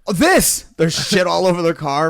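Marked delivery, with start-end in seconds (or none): 0.1-0.7 higher, louder hammered voice; imitating a drunk friend's surprise; drunk mock reply. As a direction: play dumb like a drunk. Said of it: "And he goes".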